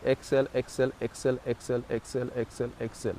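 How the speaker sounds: coaching the breath strokes, fading out; pulsed ha sounds. Shown as a demonstration. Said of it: "like this".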